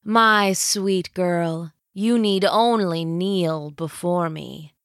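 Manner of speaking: very slow, lordly villain queen; regal dark lord. Acted. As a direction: command her to kneel. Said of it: "her bearing regal".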